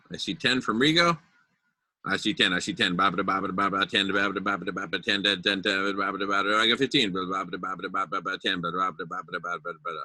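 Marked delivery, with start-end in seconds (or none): 2.1-10.0 rapid cattle auction chant; Texas auctioneer. Pretend. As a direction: rattle it off like a livestock auctioneer. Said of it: "I'm trying to sound like a Texas auctioneer".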